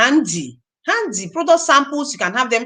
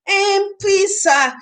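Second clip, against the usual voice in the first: high, slow, timid pleading; mock beg a rich prospect; beggarly pitch; 3 semitones higher than usual. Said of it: "you're talking this way".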